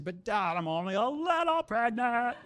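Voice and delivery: lightly voiced high pleading teen; mock innocent plea to dad; teenage girl pleading. Teen girl trying to calm her dad, mock innocent. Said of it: "when she said".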